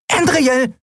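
high squeaky little creature calling; tiny piping voice. A narrator's reading. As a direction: pipe the name up high. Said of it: "piepste eine Stimme". (hohe Piepsstimme)

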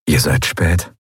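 low male figure, easy tease; Kai's voice. A narrator's reading. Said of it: "sagte er".

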